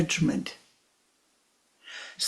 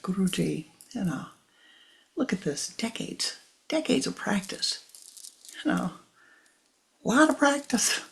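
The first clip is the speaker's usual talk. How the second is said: high, rising, pleading voice to the guru; distraught disciple begging for help; emotional plea; 7 semitones higher than usual. Retold or imitated. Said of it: "as I'm highly emotional".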